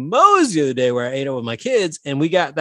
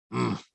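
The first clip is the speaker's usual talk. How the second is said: dad's grunt; 4 semitones lower, 9 dB quieter than usual. Retold or imitated. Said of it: "an impression of my dad".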